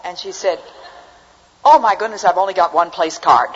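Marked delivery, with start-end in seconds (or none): 1.6-3.5 mildly hammed-up dismay, louder and higher; dismayed old lady. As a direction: imitate a flustered old lady's dismay. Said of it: "her face fell".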